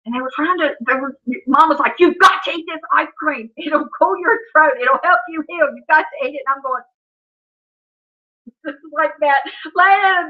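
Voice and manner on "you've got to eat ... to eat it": higher-pitched, insistent mom voice. Retold or imitated. Mom urging sick daughter to eat ice cream, insistent. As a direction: press each order on a reluctant patient.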